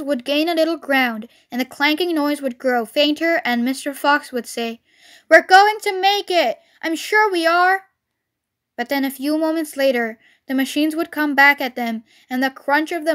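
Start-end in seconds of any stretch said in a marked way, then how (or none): 5.3-7.9 raised, hopeful rallying voice; rally the family, starting loud and high; encouraging. A narrator's reading. Fox encourages his digging family.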